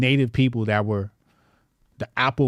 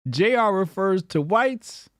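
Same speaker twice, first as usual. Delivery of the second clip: slow dramatic read; 6 semitones higher, slower than usual. Shown as a demonstration. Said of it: "slow dramatic read".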